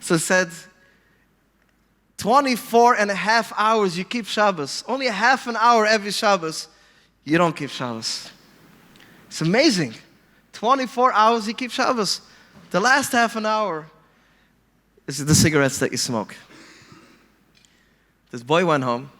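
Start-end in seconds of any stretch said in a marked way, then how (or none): 2.2-8.3 marveling. Retold or imitated. Acted Rebbe marvels at the boy. 9.3-16.3 raised pitch, marveling at each phrase; amazed praise. Retold or imitated. Acted Rebbe marvels at the boy.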